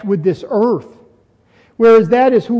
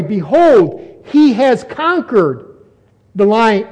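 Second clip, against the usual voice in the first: "he has conquered" raised and drawn out; slow, weighty stress on "conquered"; emphatic proclamation; slower than usual. Shown as a demonstration. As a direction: lean hard on "he has conquered". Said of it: "there's emphasis with that".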